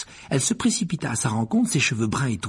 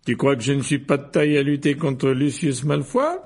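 higher, indignant challenge; 4 semitones higher, 4 dB louder than usual. A narrator's reading. Mr Weasley feels doubted by his wife, indignant. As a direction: protest as if your pride is hurt. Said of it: "s'indigna Monsieur Weasley".

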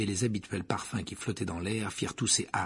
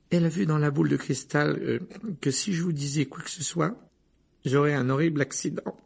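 higher, nervous squeak; a boy squeaking after his exam; squeaky Neville; 6 semitones higher than usual. A narrator's reading. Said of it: "couina Neville".

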